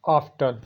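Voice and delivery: ऑफ्टन with the t sounded, off-ten; wrong pronunciation. Shown as a demonstration. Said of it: "जो गलत पढ़ा जाता है".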